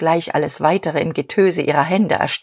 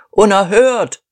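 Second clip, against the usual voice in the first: louder, outraged call; indignant cry; 3 semitones higher, 6 dB louder than usual. A narrator's reading. Suppliers protest against the speaker, loud. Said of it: "riefen die Lieferanten".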